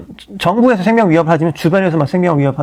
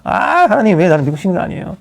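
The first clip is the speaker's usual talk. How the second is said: resentful complaint. Retold or imitated. Pastor imitating his old complaint to God, resentful. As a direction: plead with God, aggrieved. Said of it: "하나님께 원망 많이 했습니다".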